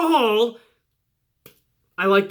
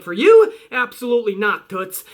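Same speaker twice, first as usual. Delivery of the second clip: smug dismissal. Retold or imitated. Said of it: "Elias is like".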